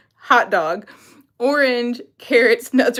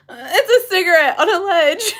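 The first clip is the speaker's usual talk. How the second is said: laughing; 4 semitones higher, faster than usual. Real, not acted. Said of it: "I don't know why it's making me laugh".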